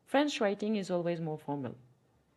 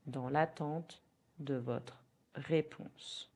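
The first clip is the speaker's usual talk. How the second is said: slow repeat; 2 semitones lower, slower than usual. Shown as a demonstration. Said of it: "In French".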